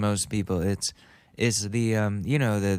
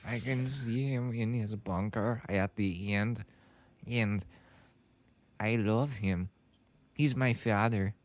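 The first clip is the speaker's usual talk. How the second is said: lightly mocked German-accented director; imitated German accent; 3 dB quieter than usual. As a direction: parrot him in a rough German accent. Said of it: "I'm trying to imitate this specific guy".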